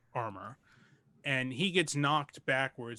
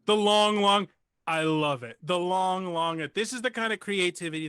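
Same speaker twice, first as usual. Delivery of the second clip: delighted; 3 semitones higher, 5 dB louder than usual. Acted. Npc delighted by player's phrase.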